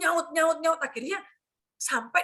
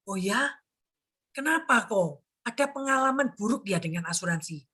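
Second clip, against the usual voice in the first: calm, understanding; 3 semitones lower than usual. Retold or imitated. Agent asking an angry client why, calm. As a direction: gently draw the upset client out. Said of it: "saya diam aja".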